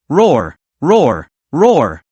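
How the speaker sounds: three short read-out roars, mildly angry; lightly voiced bear roaring in anger; a hint of a bear shocked into roaring. A narrator's reading. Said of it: "roared in anger".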